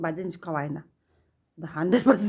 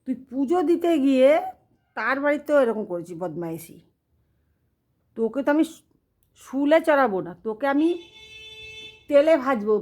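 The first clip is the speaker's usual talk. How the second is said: god's threats; 3 semitones higher than usual. Retold or imitated. God threatens the priest.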